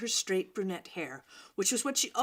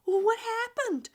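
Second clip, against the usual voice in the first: much higher, keen question; eager boy chiming in; 14 semitones higher, 4 dB louder than usual. Acted. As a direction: jump in eager to know. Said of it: "a boy chimed in".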